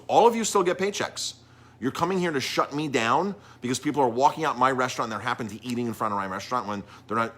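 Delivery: retold indignant accusation, high and loud at first. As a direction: confront them as the aggrieved owner, then ease off. Retold angry owner confronting the police.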